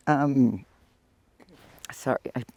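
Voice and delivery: talking through a runny nose; sniffly, runny nose. Real, not acted. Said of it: "my nose is running".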